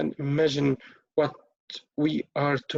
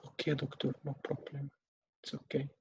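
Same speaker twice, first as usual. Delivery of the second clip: much softer, barely audible acceptance; resigned relative; 13 dB quieter than usual. Acted. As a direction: give in quietly, spent. Then she will say.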